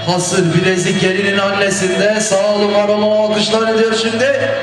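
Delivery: drawn-out, sing-song gift call; wedding gift announcer. Acted. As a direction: announce each gift to the hall.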